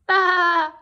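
high loud baa; sheep bleating. Acted. Sheep agreeing to the plan with a baa. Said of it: "said the sheep".

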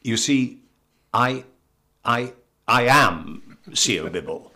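halting, very English self-introduction; very English accent. Retold or imitated. Actor introduces himself to a shop assistant, in a very English accent. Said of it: "in my very English accent".

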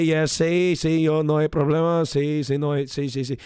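fake fluent Spanish. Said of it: "and I would say".

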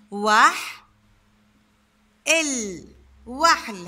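"وح" and "ال" said apart with pauses, then "وحل" whole; teacher cutting "وحل" into syllables; syllable split. Shown as a demonstration. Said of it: "هيني قطعت هاي الكلمة".

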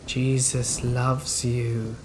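slow, drawn-out creepy singsong; creepy sing-song. Retold or imitated. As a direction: croon it slowly, unsettling and eerie. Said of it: "he says in this creepy sing-song voice".

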